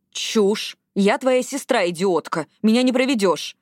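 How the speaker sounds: mildly heated sisterly rebuke; impatient, pitch jumping in bursts; exasperated scolding. Acted. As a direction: snap back with a touch of anger. Sister angrily challenges a denial.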